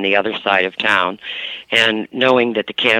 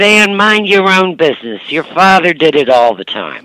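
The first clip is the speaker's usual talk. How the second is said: imitating her mother snapping; 5 semitones higher, 4 dB louder than usual. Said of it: "She said".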